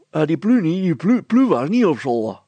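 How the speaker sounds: put-on high, loud childish voice; a cheeky little girl piping up; Petronella the girl. Girl answering the mayor, high and childish.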